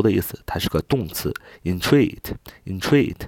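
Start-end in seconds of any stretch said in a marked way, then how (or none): 1.6-3.2 "entreat" with the stress on TREAT; stress on second syllable. Shown as a demonstration. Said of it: "重音在第二个treat". (慢读entreat，重音放在第二个音节treat上)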